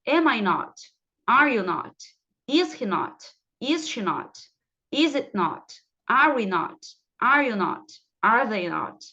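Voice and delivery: each question like "Am I not?" set apart, falling on NOT; model pronunciation. Shown as a demonstration. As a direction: drill "Are you not?" for learners to repeat. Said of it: "vão repetindo aí comigo". (pronúncia modelo para repetir)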